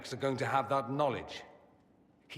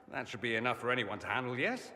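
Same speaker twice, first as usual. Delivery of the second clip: rattled off fast; faster than usual. Acted. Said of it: "Am I speaking too quickly for you?".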